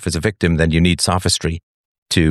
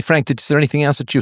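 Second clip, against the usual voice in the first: talking through a yawn; 8 semitones higher, faster than usual. Real, not acted. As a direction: stretch the words round a yawn. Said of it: "sorry, I'm yawning".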